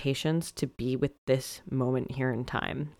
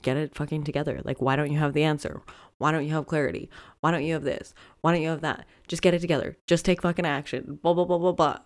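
berating inner voice; 2 semitones higher than usual. Retold or imitated. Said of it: "being like".

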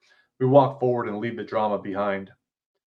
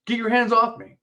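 much higher, louder, shouting; angry shout; 12 semitones higher, 4 dB louder than usual. Acted. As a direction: yell it as he grabs your shoulders. Hero shoved by the guard.

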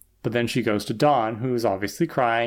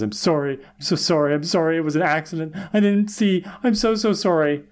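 retold pleading, climbing higher as it goes; mock tearful apology; 4 semitones higher than usual. Willow gets in front of them, mock tearful apology. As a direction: lightly imitate a frantic tearful apology. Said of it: "and she's crying".

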